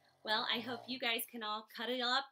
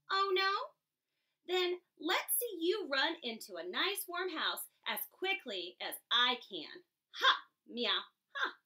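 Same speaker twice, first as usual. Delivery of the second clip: taunting cat; 2 semitones higher than usual. Acted. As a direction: jeer like a smug cat. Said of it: "meowed the cat".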